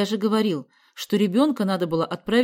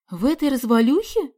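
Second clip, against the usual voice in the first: higher, louder disbelief; mother astonished about the shack; 7 semitones higher, 7 dB louder than usual. Acted. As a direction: gasp it out in shock. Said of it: "поразилась мама".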